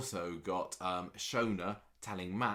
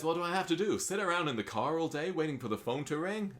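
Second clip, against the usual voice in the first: higher, louder, fed-up question; mock exasperation; exasperated Gabrielle; 9 semitones higher, 3 dB louder than usual. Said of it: "she says".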